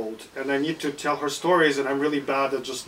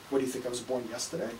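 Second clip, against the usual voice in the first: quick indignant parrot; 2 semitones lower, 9 dB quieter, faster than usual. Acted. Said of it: "The parrot".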